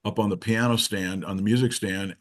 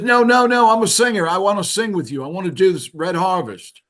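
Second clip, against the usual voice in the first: put-on high-pitched, insistent British accent; loud opening, higher British voice; imitating a singer; 9 semitones higher, 6 dB louder than usual. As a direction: imitate a British singer protesting, pitched well up. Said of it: "with a British accent".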